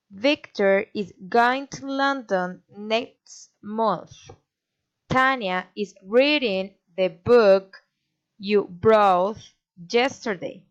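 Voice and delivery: five measured beats, as in VICTOR, GOING, LONDON, NEXT, MONTH; five stresses. Shown as a demonstration. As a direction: stress TANYA, READING, BOOK, BROUGHT, YESTERDAY, spaced apart. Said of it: "A statement with five stresses".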